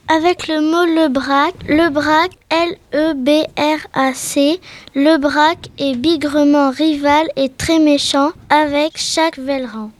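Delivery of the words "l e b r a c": each letter of L E B R A C said separately; spelled out letter by letter. Shown as a demonstration. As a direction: spell out L E B R A C one letter at a time. Epelle le mot de l'acrostiche. (épelé lettre par lettre)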